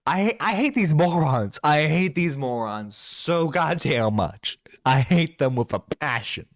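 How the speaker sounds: worked-up rant of pure loathing; heated loathing. Real, not acted. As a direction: lean hard on the words in angry exasperation. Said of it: "if you can't fucking tell".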